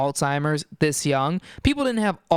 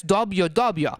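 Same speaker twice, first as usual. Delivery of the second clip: put-on Boston accent. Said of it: "everyone in Boston talks like this".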